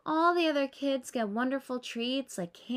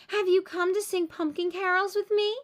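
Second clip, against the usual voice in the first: hopeful question; 7 semitones higher, 4 dB louder than usual. A narrator's reading. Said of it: "he asks".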